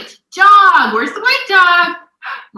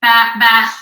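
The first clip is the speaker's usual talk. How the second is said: lightly voiced sheep baa, low and even; sheep bleat; 4 semitones lower, 3 dB louder than usual. Shown as a demonstration. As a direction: imitate a sheep for a small child. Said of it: "What does a sheep say".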